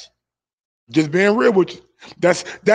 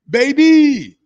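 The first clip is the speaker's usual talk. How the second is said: higher, louder mimicked British accent; mock Kell Brook accent; 5 semitones higher, 6 dB louder than usual. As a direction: playfully exaggerate the boxer's British accent on a drawn-out word. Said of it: "how Kell got that little funny ass accent".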